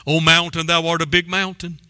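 lightly voiced awestruck address to the mountain; preacher mocking someone who admires the problem; mock awe. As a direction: marvel at the mountain in old-fashioned tones. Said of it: "what are you doing when you're talking to it?".

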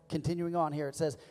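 ordinary talk, nothing marked

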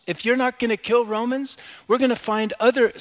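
high, loud defiance; defiant crowd. Acted. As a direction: raise pitch and volume like a disillusioned crowd.

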